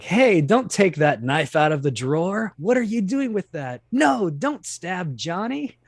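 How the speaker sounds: high, hammed-up panicked pleading, slowing at the end; cheesy radio drama line. Mocking old radio dramas where characters explain the action, high hammed-up panic. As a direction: overact it like a corny fifties radio play. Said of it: "you get sort of cheesy lines like".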